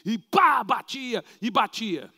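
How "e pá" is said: smack sound. Retold or imitated. Impact of body hitting ground.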